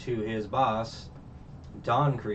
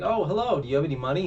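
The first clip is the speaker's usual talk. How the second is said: mock sweet greeting; 6 semitones higher, 5 dB louder, much faster than usual. Patty greets customer, mock sweet.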